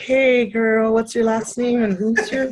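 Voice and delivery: high, slow sing-song; chirpy girlfriend text voice; sweet high friendly ask; girly high voice. Retold or imitated.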